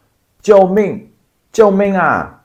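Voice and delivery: high full-lung scream of 救命, slow and drawn out; shout for help. Shown as a demonstration. Person in danger shouts for help, screaming. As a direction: scream it at the top of your lungs. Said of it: "shout the top of your lungs".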